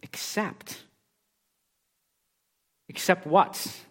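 a hushed "Except," then a pondering "except what?"; emphasis on except. Shown as a demonstration. Preacher drawing the congregation to "except", hushed emphasis. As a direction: lean into "Except" as a quiet key word. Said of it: "highlight the word except".

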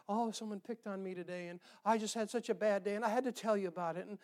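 hammed-up bad-day moan, rising as it goes; mock complaining. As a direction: play up the woe-is-me griping. Acting out complaining to everybody.

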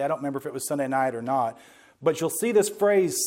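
ordinary talk

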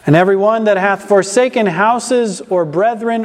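reads the verse out with force; loud scripture reading. Real, not acted. Preacher reading Matthew to congregation, loud. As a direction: proclaim the verse strongly.

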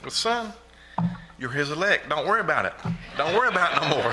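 reliving dad's answer with real laughter; laughing. Real, not acted. Retelling dad's relieved answer, laughing.

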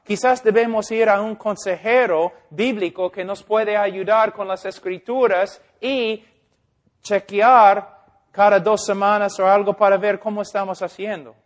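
Spanish with an American accent; non-native Spanish, American English accent. Real, not acted. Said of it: "Mi español no es muy bueno".

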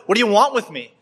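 high, pleading voice, slowing on kill; a cripple begging the king's soldiers, high and afraid; frightened pleading. Acted. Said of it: "he just cries out".

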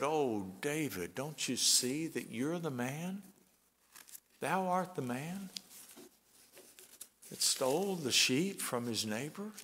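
soft, unhurried and kind, never raising the voice; a mild, quiet plea; gentle rebuke. Retold or imitated. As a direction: tell him gently, like a friend. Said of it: "didn't have to raise his voice".

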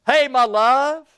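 slow, loving hey my love; tender greeting. Acted. Shepherd greeting his beloved, slow and tender. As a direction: linger on it lovingly. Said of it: "don't you like to be talked to like that".

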